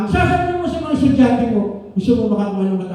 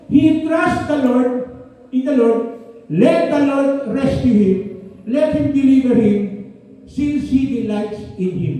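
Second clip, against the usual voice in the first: emphatic scripture reading; slower than usual. Real, not acted. Reads mocking Psalm verse.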